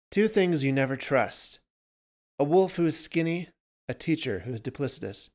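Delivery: a hint of a cryptic old man; ominous, knowing stranger; lightly voiced stranger. A narrator's reading. Stranger voiced quoting Buddha.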